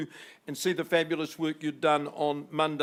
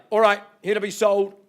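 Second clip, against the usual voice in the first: auctioneer's call; 4 semitones higher, 10 dB louder than usual. Real, not acted. Auctioneer opens bidding.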